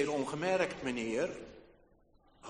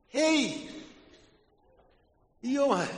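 calling out; 7 semitones higher, 5 dB louder than usual. Acted. Old man calls out.

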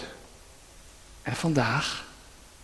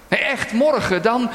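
insisting; 5 semitones higher, 4 dB louder than usual. Pretend. Insisting on tomorrow.

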